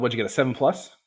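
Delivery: plain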